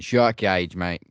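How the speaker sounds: quick attempt at an Australian accent, Rhea style. Co-host imitates Rhea announcing the match in an Australian accent. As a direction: announce it like an Aussie wrestler would. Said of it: "coming from Rhea Ripley with her Australian accent".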